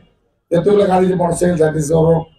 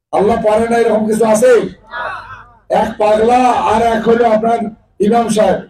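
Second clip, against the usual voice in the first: emphatic shout; 4 semitones higher than usual. Real, not acted. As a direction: raise the voice and challenge the crowd. Preacher's rhetorical challenge.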